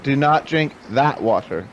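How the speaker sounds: "Do not drink that water" slowly, word by word; slow warning. Acted. Dwarf repeats warning to naive companion, slow and deliberate.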